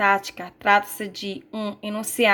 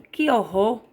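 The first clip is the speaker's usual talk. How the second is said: expressive exclamation. Shown as a demonstration. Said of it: "Entonação expressiva, reação mais exaltada".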